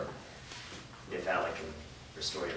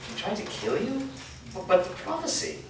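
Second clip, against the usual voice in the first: shocked disbelief; 10 semitones higher than usual. Acted. Shocked news of an attack.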